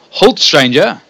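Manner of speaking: put-on loud, commanding British accent; ridiculous British accent. Villager halting the stranger in an over-the-top British accent. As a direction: bark the order like a pompous British guard. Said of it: "he commands in a ridiculously British accent".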